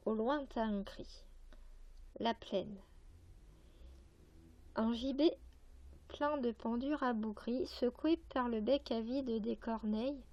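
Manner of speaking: measured verse reading with pauses between lines; poetry recitation. Acted. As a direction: recite the poem phrase by phrase. Reads a poem aloud.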